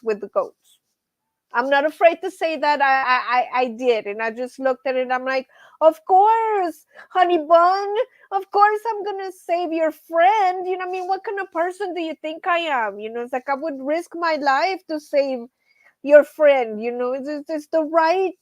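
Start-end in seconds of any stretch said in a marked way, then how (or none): 5.8-13.0 put-on baby talk to goat. Talking sweetly to the goat.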